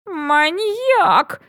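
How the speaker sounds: indignant high outcry; outburst. A narrator's reading. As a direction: blurt it out, outraged. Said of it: "не сдержался Билли".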